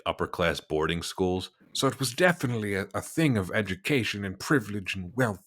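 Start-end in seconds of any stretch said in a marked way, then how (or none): 1.7-5.4 high, quick mid-Atlantic lecturing voice; mid-Atlantic accent. Shown as a demonstration. Host demonstrating the accent while explaining it. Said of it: "not quite British".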